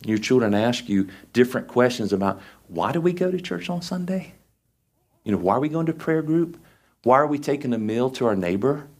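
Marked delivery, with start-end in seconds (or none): 2.7-8.9 put-on higher, childlike questioning voice; curious child. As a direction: ask like a curious kid.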